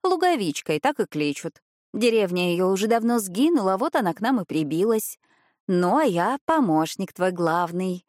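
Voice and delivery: rolled throaty r like a Frenchman; cat speaking with French-style r and purrs. Acted. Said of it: "грассируя на французский манер". (грассирующее французское «р»)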